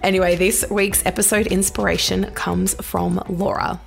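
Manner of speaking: husky voice from pollen; hay fever husky throat; sultry narrator. Real, not acted. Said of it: "Please excuse my rather sultry voice this week".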